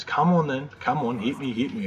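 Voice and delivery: mock a teacher daring someone to hit him; goading. Maths teacher up in student's face, lightly acted goading.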